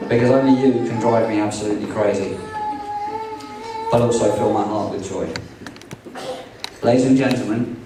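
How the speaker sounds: heartfelt groom's toast, read aloud; wedding toast speech. Acted. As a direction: deliver it like a proud groom to the room.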